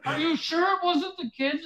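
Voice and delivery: high, hammed-up sobbing apology; fake cry. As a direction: play the wrongly accused crying wife. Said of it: "Doing the fakest cry".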